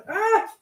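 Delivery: sudden high "ah"; quick high yelp; short high cry. Real, not acted. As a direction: let out a brief high-pitched exclamation. Sudden cry while tidying up.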